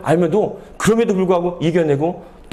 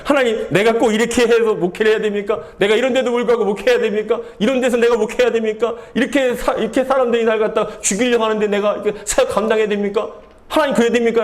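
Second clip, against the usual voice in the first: whining complaint; 3 semitones higher than usual. Acted. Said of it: "징징대지 말라는 거예요".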